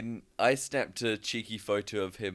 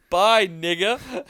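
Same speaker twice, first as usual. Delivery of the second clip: shouted goodbye across the bar; loud slow farewell; 9 semitones higher, 8 dB louder, slower than usual. Retold or imitated. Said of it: "I have no volume control".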